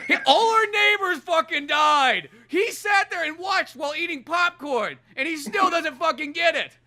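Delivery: can barely get it out for laughing; laughing while talking. Real, not acted. Laughing through his own retelling.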